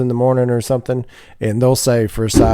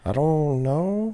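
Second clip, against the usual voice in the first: baffled quiet; 5 semitones higher, 8 dB quieter, much slower than usual. Retold or imitated. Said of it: "I'm like".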